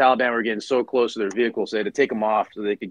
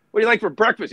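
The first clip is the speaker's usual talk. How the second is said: high mock voice; 10 semitones higher, 4 dB louder, faster than usual. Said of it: "he's just like".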